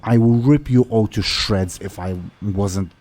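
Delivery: lightly voiced orc captive making a threat; threatening orc. Bound orc captain threatens her rescuers, mildly menacing orc voice. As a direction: threaten them as a bound orc, slowing at the end. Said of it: "and she says".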